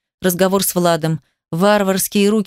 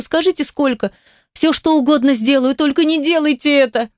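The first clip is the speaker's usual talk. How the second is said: higher, urgent begging, holding back tears; desperate pleading; 3 semitones higher than usual. Acted. Girl begging the doctors to let her keep the baby, desperate plea. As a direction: plead for your life, voice climbing.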